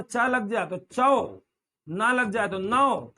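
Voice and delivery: चौ as "chaa-o", नौ as "naa-o"; two-part vowel in चौ and नौ; blended "au" demo. Shown as a demonstration. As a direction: draw out चौ and नौ from "aa" into "o". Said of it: "ऐसे बोलेंगे".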